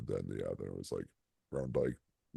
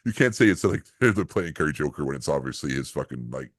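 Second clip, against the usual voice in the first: laughing indignant rant; 4 semitones higher, 9 dB louder than usual. Retold or imitated. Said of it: "I was like".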